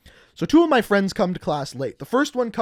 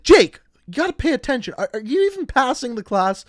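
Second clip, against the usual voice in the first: higher-pitched, lightly exasperated telling-off; mock scolding teacher; 6 semitones higher, 4 dB louder than usual. Teacher scolds Jake during a lecture, mild mock exasperation. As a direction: imitate a teacher calling out a chatterer.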